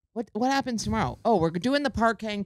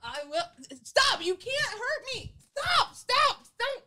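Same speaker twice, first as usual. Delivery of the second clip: mock crying plea; 13 semitones higher, 4 dB quieter, slower than usual. Acted crying pleading.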